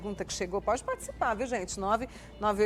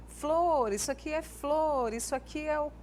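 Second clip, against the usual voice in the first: put-on higher, sing-song naming for a small child; talking to a toddler; 5 semitones higher, slower than usual. Shown as a demonstration. Mother naming objects for her toddler, higher sing-song. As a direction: point and name each thing to a little one.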